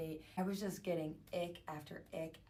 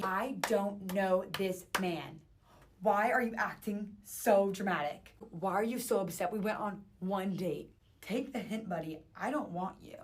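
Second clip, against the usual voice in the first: exasperated; 2 semitones higher, 6 dB louder than usual. Real, not acted. Exasperated rant at his texts.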